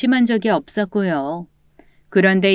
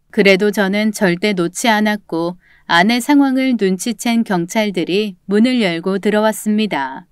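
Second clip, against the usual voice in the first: ordinary delivery, nothing marked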